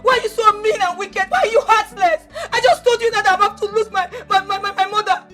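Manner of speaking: heated tearful accusation; ranting. Acted. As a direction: pour out the grievance at uncle. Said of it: "When you are done ranting".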